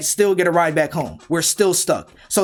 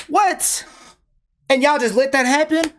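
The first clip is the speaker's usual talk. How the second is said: a sudden, much higher outraged "What?"; indignant disbelief; 8 semitones higher than usual. Real, not acted. To friends who let him get beaten, high indignant disbelief. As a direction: ask it like you can't believe it.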